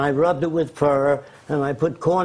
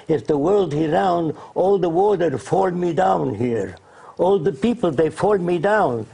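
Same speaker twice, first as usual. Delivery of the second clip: put-on Arab accent; 3 semitones higher than usual. Arab leader arguing against round earth, in an Arab accent. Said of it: "He said in his accent".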